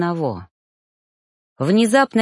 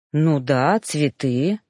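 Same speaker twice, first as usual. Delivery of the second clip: thoughtful; 3 semitones lower, much slower than usual. Acted. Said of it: "задумчиво кивнул жнец".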